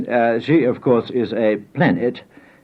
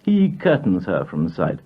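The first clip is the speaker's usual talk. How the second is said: poem recitation; slower than usual. Acted. Poet reciting a poem about his mother, measured incantatory reading. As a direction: declaim it line by line with deliberate pauses.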